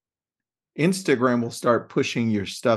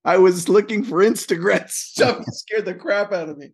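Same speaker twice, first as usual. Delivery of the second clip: startled; 9 semitones higher, 5 dB louder than usual. Real, not acted. Startled cohost after a jump scare.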